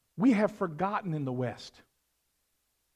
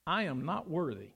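humble plea; 6 semitones lower, 8 dB quieter than usual. Acted. Centurion's humble plea, read softly.

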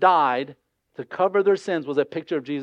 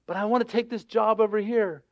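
higher-pitched mock plea; raised voice, making excuses; pleading objection; 4 semitones higher than usual. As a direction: imitate someone lightly protesting. Voicing someone objecting to God.

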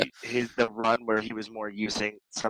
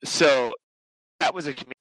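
glitching audio; 2 semitones higher, 4 dB quieter than usual. Real, not acted. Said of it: "I can hear you again".

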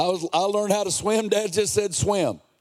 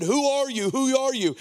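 higher-pitched retold challenge; insistent questioning; 6 semitones higher than usual. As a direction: mimic a crowd demanding an answer. Retold questioning of John the Baptist.

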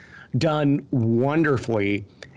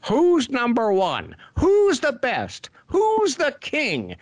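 put-on high, slow, grand old studio big shot; Sam Raimi's old-timey director voice; 9 semitones higher, slower than usual. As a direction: lord it over them like a pompous old Hollywood director. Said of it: "old-timey Hollywood director voice".

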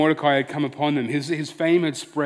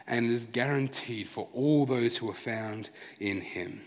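lower, softer, earnest preaching; solemn sermon appeal; 3 semitones lower, 6 dB quieter than usual. Real, not acted. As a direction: bring it down into a quiet, sincere appeal. Solemn gospel appeal to listeners.

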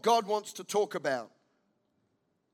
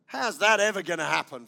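louder sceptical scoff; scornful doubt; 5 dB louder than usual. Retold or imitated. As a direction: scoff in disbelief. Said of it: "from Zechariah".

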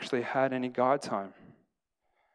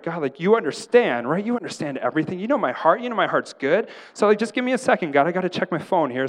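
higher, louder, wheedling plea to God; pleading excuse; 5 semitones higher, 5 dB louder than usual. Acted. Preacher acting himself begging God for a second to check his phone, pleading. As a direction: talk God into it, pitch swooping up.

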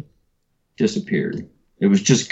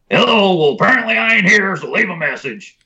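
a hint of a drawling old man, pitched higher; dad's voicemail voice; 10 semitones higher than usual. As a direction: lightly put on a laid-back old man. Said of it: "he was real distinct".

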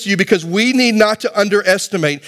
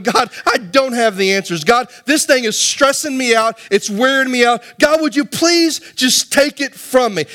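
acted plea, climbing higher toward the end; pleading with God; 5 semitones higher than usual. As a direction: plead it upward, imitating a worn-out prayer. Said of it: "I plead out with God".

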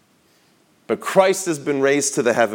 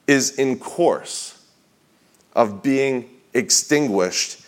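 slow, broken into short weighty phrases; solemn quote reading; slower than usual. Acted. Preacher reading of joy in God being extinguished, slow and deliberate. Reads a book quote aloud.

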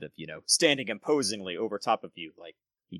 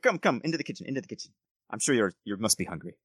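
lightly voiced courteous nobleman, bargaining; a hint of an oily noble negotiating; smooth lord Gerald; 3 dB louder, faster than usual. Gerald invites them in.

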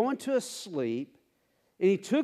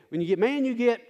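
call and response; 5 semitones higher, 4 dB louder, much faster than usual. Shown as a demonstration. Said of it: "I'll give you the opportunity".

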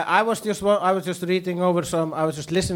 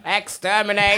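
high, grating robot cry with a laugh in it; playful Dalek impression; 5 semitones higher than usual. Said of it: "just like an Icelandic Dalek".

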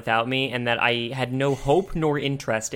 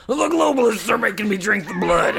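higher, louder paranoid rant voice; Alex Jones impression; 7 semitones higher, 4 dB louder than usual. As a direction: rant like a paranoid radio host. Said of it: "Dan Caves is just like".

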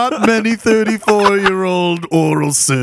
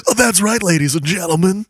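radio DJ voice; 3 semitones higher, faster than usual. Acted. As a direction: hype the crowd like a DJ. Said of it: "radio voice".

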